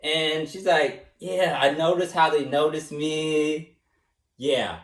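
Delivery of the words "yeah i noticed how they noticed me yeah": imitating Sahala. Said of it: "that's how I would imitate her".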